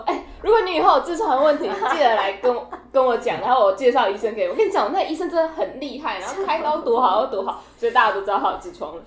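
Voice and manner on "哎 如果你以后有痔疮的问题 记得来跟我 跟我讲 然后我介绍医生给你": aunt's voice. Retold or imitated. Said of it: "到处跟我们大家讲说".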